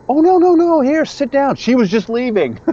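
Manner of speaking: high, bright mock-suave celebrity voice; Mister Hatch impression. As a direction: play the smooth star waving the girl off. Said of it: "as only he can do".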